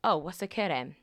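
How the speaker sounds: Welsh valleys accent; playful put-on Welsh accent; Nessa. Shown as a demonstration. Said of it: "the best Welsh is Nessa".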